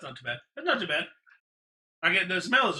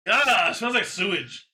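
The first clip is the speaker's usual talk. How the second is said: disgusted by smell; 3 semitones higher, 4 dB louder than usual. Real, not acted. Reacts to the smell.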